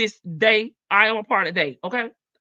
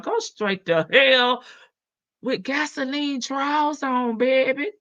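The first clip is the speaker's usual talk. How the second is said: slow sassy put-down; 2 semitones higher than usual. Acted. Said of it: "let me be the first one to say to Dion".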